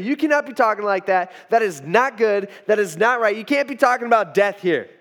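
emphatic, insistent objection; rebuking. Acted. Peter telling Jesus not to talk of death, rebuking. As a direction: lay down the law, point by point. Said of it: "He rebukes Jesus".

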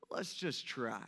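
low, soft, understated reply; acted calm, hushed answer; gentle coaxing. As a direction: quietly nudge a reluctant friend. Jesus gently answers reluctant Peter.

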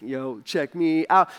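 mock cool swagger. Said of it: "I'd be walking cool".

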